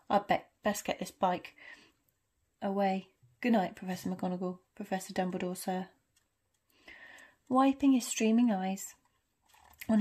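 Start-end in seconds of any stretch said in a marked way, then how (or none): 0.1-5.9 muffled voice. Acted. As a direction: speak muffled behind a handkerchief. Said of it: "in a very muffled voice".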